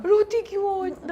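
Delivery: high, scolding mother asking why she cries; mother's voice. Retold or imitated. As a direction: ask it like a worried old mother. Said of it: "روتی بہت ہوں۔".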